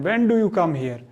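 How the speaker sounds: "When do you come here?" with the tune falling at the end; falling intonation. Shown as a demonstration. Teacher demonstrating falling intonation on a wh-question. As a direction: ask the wh-question and let the pitch drop on here. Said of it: "थोड़ा सा falling intonation होगी".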